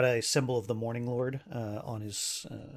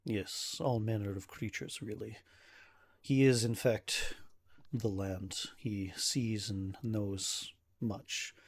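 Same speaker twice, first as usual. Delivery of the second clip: slow, deliberate and grave, lightly acted; stressed, weary nobleman; 5 dB quieter, slower than usual. Ismark warns adventurer of Strahd's reach, understated grave manner. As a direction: weigh each phrase with formal restraint. Game master voices Ismark.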